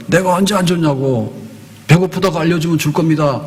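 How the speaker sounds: indignant protest to the judge. Acted. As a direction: argue back as if wronged. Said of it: "라고 따지는 거예요". (억울한 듯 항의하는 말투)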